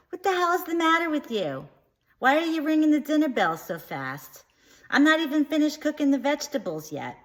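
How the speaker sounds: high, loud scolding mother's yell; angry mom yelling. Retold or imitated. Mom yells at her son for ringing the dinner bell fast, shrill angry yell. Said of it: "my mom was like".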